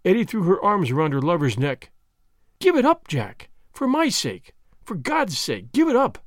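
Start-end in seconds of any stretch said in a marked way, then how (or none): 2.6-6.2 high, breaking plea; frantic, imploring; desperate pleading. Acted. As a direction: beg him with everything.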